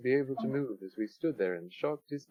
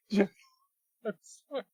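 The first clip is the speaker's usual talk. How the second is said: laughing shout; 10 semitones higher than usual. Acted. Exploding at eulogy, laughing.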